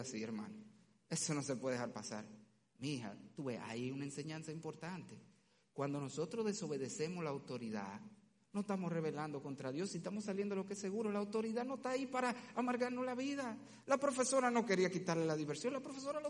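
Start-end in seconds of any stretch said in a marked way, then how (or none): 2.8-13.6 put-on soft, gentle explaining to a little girl; gentle fatherly lesson. Father calmly teaching his small daughter, gentle and soft. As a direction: talk her through it tenderly and softly. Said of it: "father teaching daughter".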